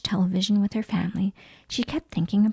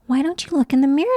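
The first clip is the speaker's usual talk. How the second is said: mummy voice; 5 semitones higher, 4 dB louder, faster than usual. Acted. Mummy Pig voiced in story.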